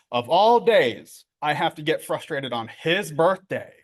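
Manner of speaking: mock self-blame, slow emphatic opening; self-blaming. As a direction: lightly blame yourself, leaning on the words. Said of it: "I'm also blaming myself".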